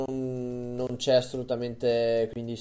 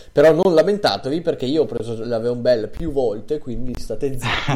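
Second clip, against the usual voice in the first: loud and fast, hammed-up scolding; mock rant; 9 dB louder than usual. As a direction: bark it at the listeners, jokingly. Mock rant telling listeners off.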